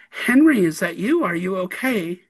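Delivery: loud, startled call of a name. Retold or imitated. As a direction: call out sharply into the dark. Calling out to a stranger in the dark.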